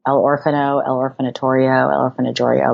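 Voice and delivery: playful fake Spanish accent, guessing words; light mock Spanish accent. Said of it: "say the word orphan with a Spanish accent".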